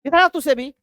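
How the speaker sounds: father summoning his son in anger; hammed-up furious father; angry father calling. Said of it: "बड़ा तगड़ा level पे गुस्सा आया".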